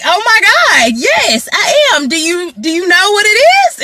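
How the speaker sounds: high-pitched thrilled chatter; excited gush. Retold or imitated. Meeting a fellow It Works member at checkout, gushing high. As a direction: bubble over with delight.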